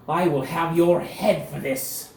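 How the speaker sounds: a pampered lord sputtering at the insult; outraged noble. Acted. Captured noble to Cecil, high indignant outrage.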